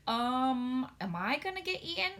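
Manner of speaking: put-on a little girl nervously asking; nervous Sophie.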